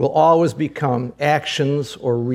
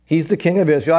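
higher-pitched, lightly acted taunt; mocking elders; 4 semitones higher, 3 dB louder than usual. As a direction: jeer up at the condemned man, mildly. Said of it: "the elders mocked him".

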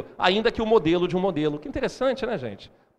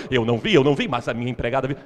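Silvio Santos impression; 3 dB louder, faster than usual. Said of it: "Há muito tempo que eu não imitava Silvio Santos".

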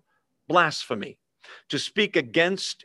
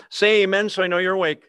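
louder and quicker, rallying the room; rousing call out; 5 semitones higher, 5 dB louder, faster than usual. Real, not acted. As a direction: call out to wake the congregation. Calling the congregation to respond.

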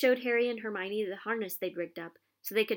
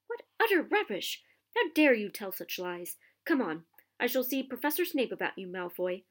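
furious teacher; 2 semitones higher, 4 dB louder than usual. Acted. McGonagall furious at Malfoy.

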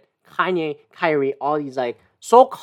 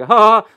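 fake laugh along; 4 semitones higher, 6 dB louder than usual. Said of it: "I laugh along with it".

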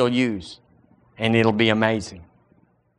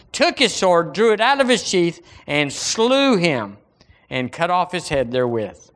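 scripture reading; 3 semitones higher than usual. Acted. Preacher reading of the giant's fall to church, declaimed then settling. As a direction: read the victory out, then let it settle.

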